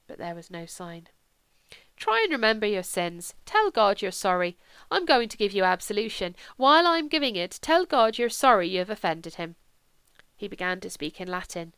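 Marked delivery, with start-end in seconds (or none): 2.0-9.6 earnest priest, firm and emphatic; urging priest. Acted. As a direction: gently press a dying man to repent. Priest urges dying man.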